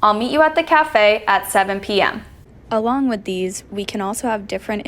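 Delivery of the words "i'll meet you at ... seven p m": vary the tune on "meet you at the cafe at seven P M"; lilting rise and fall across "cafe at seven P M"; falling-rising intonation. Shown as a demonstration. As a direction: pitch moving up and down through "cafe" and "seven P M". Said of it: "Falling, rising".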